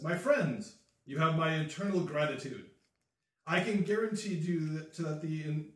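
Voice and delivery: grand, proclaiming delivery; grateful new Baron. Acted. New Baron thanking the adventurers, grandly formal. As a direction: address them like a newly crowned lord.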